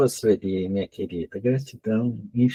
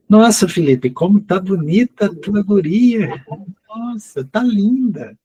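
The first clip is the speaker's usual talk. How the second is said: delighted cooing; 10 semitones higher, 4 dB louder than usual. Real, not acted. Admiring the child on camera. (voz encantada de admiração)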